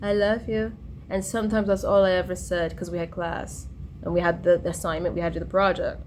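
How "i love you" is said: higher-pitched, fond calling-out; retold affectionate call. Friend recalling her daily greeting to him, affectionate call. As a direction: call out lovingly, lifting the voice. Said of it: "I called out to him like that".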